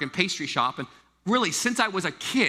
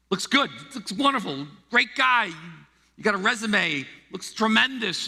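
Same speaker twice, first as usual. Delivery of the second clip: breezy hasty hiring; 3 semitones higher than usual. Retold or imitated. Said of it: "I used to do it really fast".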